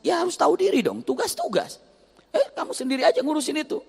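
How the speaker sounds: hammed-up husband telling her off; husband telling wife to know her place, high mock anger; scolding husband.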